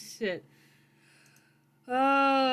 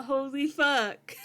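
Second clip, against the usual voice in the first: stunned; slower than usual. Real, not acted. Stunned reaction at session end.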